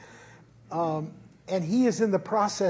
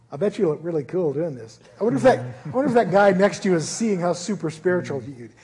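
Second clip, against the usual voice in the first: quick, smug whisper of vanity, lightly voiced; a hint of a self-satisfied inner voice; vain little inner voice; faster than usual. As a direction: tease yourself like a smug inner voice. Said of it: "this little voice comes up".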